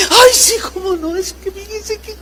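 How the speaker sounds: high, weepy voice of a worried patient; a crying woman pouring out her worries; imitating a patient on the verge of tears; tearful patient. Patient answering the doctor, voiced.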